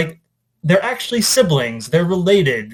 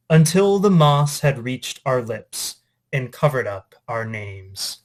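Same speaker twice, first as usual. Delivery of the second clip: poem reading. Acted. English teacher reading a Dickinson poem to students, measured recital. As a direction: let each line land, unhurried.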